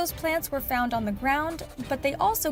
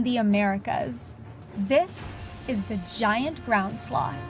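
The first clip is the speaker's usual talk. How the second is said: nature documentary. A narrator's reading. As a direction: unveil the creature with awe. Dramatic cold open over music.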